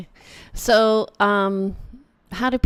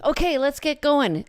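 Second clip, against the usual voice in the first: high, loud, excited rallying call; excited pep talk; 8 semitones higher, 5 dB louder than usual. Retold or imitated. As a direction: fire up the clients with raised pitch and volume. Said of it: "they hear the excitement in my voice".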